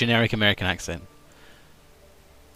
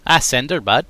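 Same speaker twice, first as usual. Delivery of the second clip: lightly done Minnesota accent; folksy Minnesotan aside. Shown as a demonstration. Streamer shows off his Minnesota accent. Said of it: "my Minnesota's pretty good".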